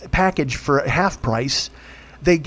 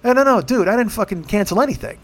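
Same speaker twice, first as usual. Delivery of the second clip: high, frustrated retold protest; exasperated protest; 5 semitones higher than usual. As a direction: push back at the rep in disbelief. Angry retold phone call.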